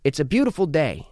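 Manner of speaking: grandpa's Italian-American saying; Italian-American accent. Retold or imitated. Grandpa passing on his saying, Italian-American accent. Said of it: "that Italian-American thing".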